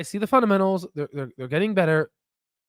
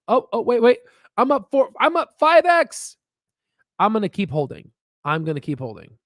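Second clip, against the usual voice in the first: excited rising squeal; 6 semitones higher than usual. Retold or imitated. Acted excited investor watching gains.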